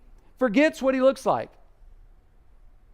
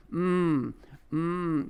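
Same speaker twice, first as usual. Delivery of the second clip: spiritual moos; 3 semitones lower, 5 dB quieter than usual. Retold or imitated. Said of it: "the spiritual moos".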